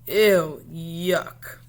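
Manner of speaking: loud ew, then a grimaced yuck; disgusted ew. Acted. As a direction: pull a face and say it. Child's disgust voiced.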